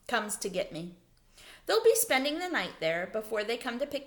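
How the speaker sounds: lively storybook reading with character voices; reading to children. Acted. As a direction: read the chapter aloud to the class, animated. Reads chapter aloud to children.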